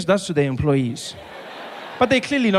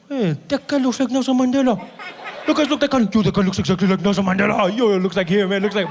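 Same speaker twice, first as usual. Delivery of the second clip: raised, eager calling to friends; excited spotting. Retold or imitated. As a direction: point him out to everyone in the car. Excited driver spotting Mandela.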